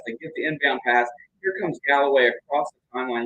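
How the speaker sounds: brisk live game commentary; play-by-play. Acted. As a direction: call the action as it happens.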